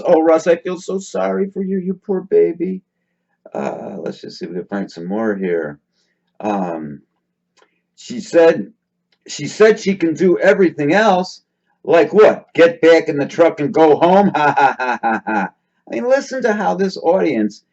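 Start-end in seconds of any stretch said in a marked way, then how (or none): 0.0-2.8 mock sympathy. Mocking sympathy for Russ. 14.4-15.5 short burst of real laughing; laughter. Real, not acted. Laughing at viewer comment.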